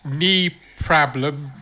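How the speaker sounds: put-on Jamaican accent. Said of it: "He sounds Jamaican now".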